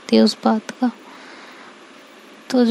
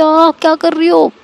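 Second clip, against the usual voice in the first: sharp high pained cry, louder; 6 semitones higher, 4 dB louder than usual. A narrator's reading. Seerat crying out when ointment is pressed, pained yelp. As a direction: yelp as the wound is pressed hard. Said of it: "सच में बहुत तेज़ आवाज़ निकलती है".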